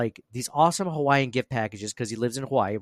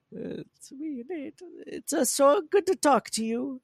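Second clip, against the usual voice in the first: much higher, slow put-on Borat-style accent; Borat Italian mix; 13 semitones higher, 3 dB quieter, slower than usual. Impersonating the listener, Borat-Mario put-on accent. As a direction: drag it out in a goofy foreign accent. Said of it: "That's almost like Borat".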